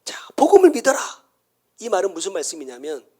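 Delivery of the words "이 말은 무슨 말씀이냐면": ordinary talk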